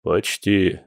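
sighed out, falling sadly. A narrator's reading. Hungover Boris answering Masha, sad sighing. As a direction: let the word sink on a sigh. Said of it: "печально вздохнул Борис".

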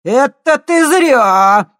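very loud, very slow snarl. A narrator's reading. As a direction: bark a threat. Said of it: "рявкнул уголовник". (рявкнуть, очень громко и медленно)

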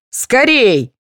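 high, loud hurry-up shout; urgent shout. A narrator's reading. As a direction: yell at them to hurry. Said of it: "закричал Владимир". (высокий громкий крик)

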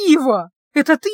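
high, loud delighted cry; almost shriek with joy at a friend; joyful near-shriek. A narrator's reading. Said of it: "разве что не вскрикнула от радости". (радостно, почти вскрикивая)

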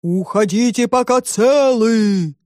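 slow, drawn-out monster boom; muffled monster voice. A narrator's reading. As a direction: draw it out like a hidden beast. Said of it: "глухой голос". (глухой, протяжный голос чудовища)

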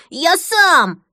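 put-on high loud insistent child's voice; child's tantrum. Boy wanting to pull the plug himself, loud whiny demand. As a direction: demand it like a stubborn toddler.

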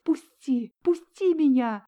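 high, loud frantic scream; frantic shout. A narrator's reading. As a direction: tear free and scream to be let go. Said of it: "закричала Ольга".

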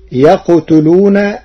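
يقتلون as yaqtuluna, no doubled taa; light verb. Shown as a demonstration. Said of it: "بتخفيف الفعل". (يقتلون مخففة)

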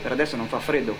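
normal talking voice

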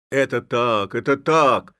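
loud, high agreement; chorus it out; shouting together. A narrator's reading. The lads agree in unison, shouting. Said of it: "закричали в один голос все хлопцы".

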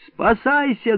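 high sudden bark. Acted. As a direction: bark out a warning. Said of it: "гаркнул я".

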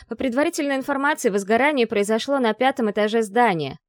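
fast reporter patter; rushed news-report gabble; rattling off. Acted. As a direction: rattle it off into the mic. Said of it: "тараторила она в микрофон".

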